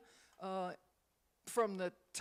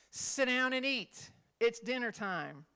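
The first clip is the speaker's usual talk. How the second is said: louder, slower order; stern command; 3 semitones higher, 5 dB louder than usual. Shown as a demonstration. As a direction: lay down the law at dinner. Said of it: "Means different things".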